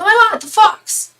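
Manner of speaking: high, loud excited squeal; re-enacted burst of amazed excitement; freaked out. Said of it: "I freaked out".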